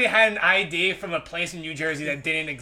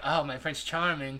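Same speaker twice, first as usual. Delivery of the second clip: mock swooning girl; 5 semitones lower, 7 dB quieter than usual. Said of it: "she'd be like".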